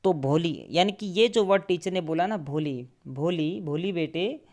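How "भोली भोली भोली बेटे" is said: tender calling. Shown as a demonstration. Teacher gently calling a shy stammering pupil, tender voice. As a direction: call her gently, like a loving teacher soothing a scared child. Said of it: "तो बहुत प्यार से teacher ने बोला है".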